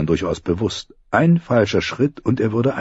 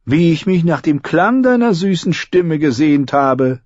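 sigh; 9 semitones higher, 4 dB louder than usual. Acted. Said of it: "seufzte Tyrion".

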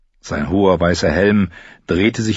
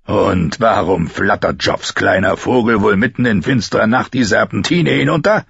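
lightly voiced drunken, menacing soldier; a hint of a slurring drunk sneering at the girl; betrunkener Bluthund. Bluthund verhört Sansa betrunken. (leicht angedeuteter betrunkener Spott)

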